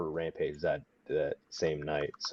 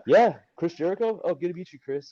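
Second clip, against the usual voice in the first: dazed greeting; 10 semitones higher, 5 dB louder than usual. Retold or imitated. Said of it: "I don't know who you are".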